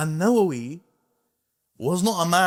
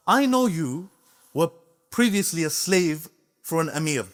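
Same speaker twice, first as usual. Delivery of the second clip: bold rebuke; 3 semitones higher than usual. Retold or imitated. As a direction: speak up boldly to the sultan. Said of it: "he spoke to him like this".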